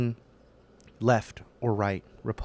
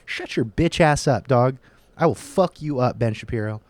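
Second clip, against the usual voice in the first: half-joking angry yell; 5 dB louder than usual. Real, not acted. Mock threats at Ben Shapiro.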